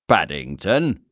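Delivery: Paddington? with a doubtful rising tune; unbelieving. Acted. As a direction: repeat Paddington as if it can't be true. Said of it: "said the inspector unbelievingly".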